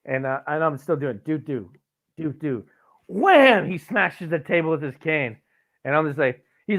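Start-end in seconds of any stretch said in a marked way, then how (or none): 1.2-2.6 two light falling "doo" notes; bouncing sound. Retold or imitated. Flicking berries across the picnic table, playful bounce noise. 3.1-3.7 sudden loud, high shout; explosive wham. Retold or imitated. Grandpa's cane smashing the table, explosive shout.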